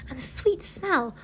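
slow, soft, near-whisper; drawn-out, breathy savouring; hushed wonder. A narrator's reading. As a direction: linger quietly over each word. Savouring the signs of spring.

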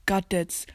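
Gadgets garbled as "gad-dets"; mocked wrong pronunciation. Shown as a demonstration. Player cites others' wrong Gadgets, said gad-dets. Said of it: "Das heißt gar nicht".

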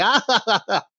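light mock "ha, ha" laugh; mocking chuckle; mock laughter. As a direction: imitate guards laughing at him, lightly. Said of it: "You know, laughing".

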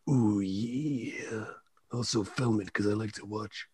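whispered pervy aside; creepy whisper. Acted. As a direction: breathe it like a creep.

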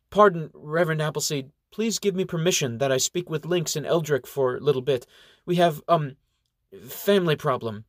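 apologetic. Acted. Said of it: "She giggles apologetically and asks".

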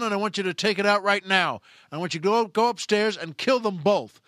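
forceful, insistent orders; acted angry boss on the phone; mounting anger. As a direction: press each command harder, pitch climbing. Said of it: "make the guy madder and madder".

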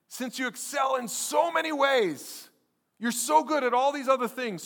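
high, loud preacher's proclamation; emphatic praise. Acted. Preacher voices Paul praising the church.

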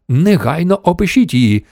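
high-pitched, urgent command; giving an order. A narrator's reading. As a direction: issue a brisk storybook order. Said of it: "розпорядився центр керування".

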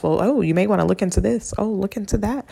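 lightly voiced spirit guides, soft; soft imitation of advising guides. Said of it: "from my spirit guides".

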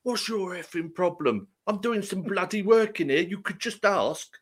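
gruff Essex lad voice; essex accent. Retold or imitated. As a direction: play an annoyed Essex builder. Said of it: "guy comes out".

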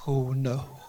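soft, hushed "oh no" with a nervous laugh; a breath of dawning doom; the moment you know it's coming for you, hushed; quiet dread. Retold or imitated. Facing the demonized bird.

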